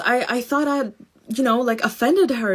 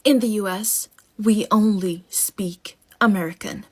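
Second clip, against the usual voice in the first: composed, stone-faced. Retold or imitated. Lady looks strangers in the eye, composed and stone-faced. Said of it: "fully composed, stone-faced".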